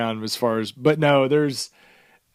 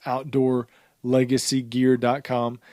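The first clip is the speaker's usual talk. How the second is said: slower, spaced-out web address; slow, careful repeat. Real, not acted. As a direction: repeat it slowly so listeners catch it. Web address repeated slowly for listeners.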